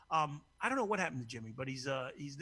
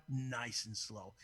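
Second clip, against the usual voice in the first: drawn-out tease; 5 semitones lower, 5 dB quieter, much slower than usual. Acted. Teasing promise, drawn out.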